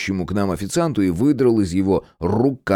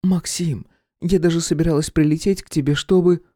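voiced woman Irka; 9 semitones higher than usual. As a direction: lay on the longing. Irka to Max.

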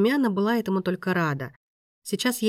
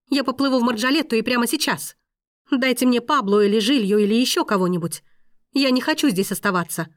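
higher, louder angry outburst; snapping angrily; 5 semitones higher, 5 dB louder than usual. A narrator's reading. Woman refusing the maestro's protection, angry snapping. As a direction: snap back and refuse to stay. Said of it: "огрызнулась Дамиана".

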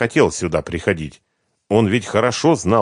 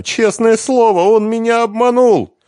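crying; 7 dB louder than usual. Acted. She keeps crying.

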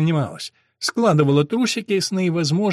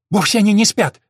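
blurted; 6 semitones higher, 6 dB louder than usual. A narrator's reading. Diana defends Mervin to Mark, blurting out loudly. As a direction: blurt it out, higher and louder. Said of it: "выпалила она".

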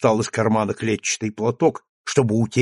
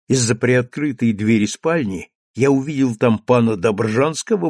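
ordinary delivery, nothing marked

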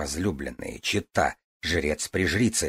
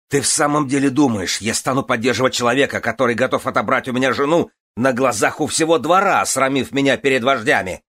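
furious rant; 6 semitones higher, 6 dB louder than usual. A narrator's reading.

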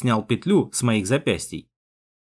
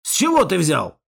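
higher-pitched sceptical question; distrustful; 5 semitones higher than usual. A narrator's reading. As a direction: question it with open doubt. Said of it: "недоверчиво спросил комсорг".

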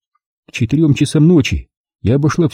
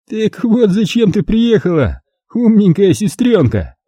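put-on higher, slow, sneering drunk malice; drunken spite; 6 semitones higher, slower than usual. A narrator's reading. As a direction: spit it out with boozy venom. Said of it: "Налился он пьяной злобой".

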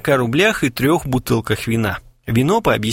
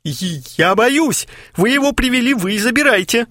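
terrified; 12 semitones higher than usual. Acted. Kharchenko pleads with friends in high terror.

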